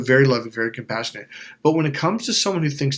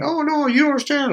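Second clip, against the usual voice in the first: much higher, whiny mock protest; mocking whine; 13 semitones higher than usual. Mocking the narcissist who begs after being cut off, in a high whine. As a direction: parody a narcissist squirming out of it.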